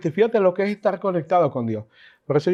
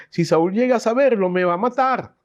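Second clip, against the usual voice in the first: fearful prophet; 6 semitones higher than usual. Retold or imitated. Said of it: "Le tenía miedo".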